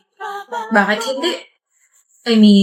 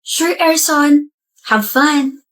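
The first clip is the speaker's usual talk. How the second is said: mock quote; 3 semitones higher, much slower than usual. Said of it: "Sabi mo pa nga".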